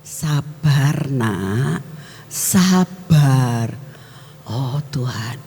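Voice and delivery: put-on calm a child down tenderly; gentle calming voice. Holy Spirit calming the angry preacher, gently soothing. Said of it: "suara Roh Kudus ngomongnya".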